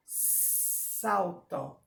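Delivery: "Salto" with the s hissed; slow "Salto" opening on a snake sss; hissing S. Shown as a demonstration. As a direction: hiss the s of "Salto". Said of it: "Da cobra".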